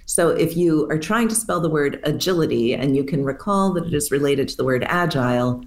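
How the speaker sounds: ordinary talk, nothing marked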